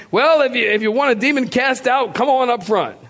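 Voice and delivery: a hint of an altar call; lightly mock the preacher's invitation.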